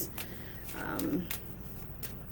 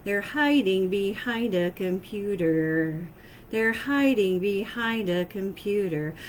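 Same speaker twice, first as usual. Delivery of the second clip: slow, drawn-out mysterious voice; slow eerie channeled message; slower than usual. Retold or imitated. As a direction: intone it slowly like a message from beyond. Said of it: "I'm hearing it in this voice".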